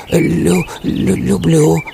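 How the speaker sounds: high, timid stammering hare; small scared voice, halting; frightened stammer. Acted. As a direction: stutter nervously on the first syllable. Frightened hare stammers before wolf.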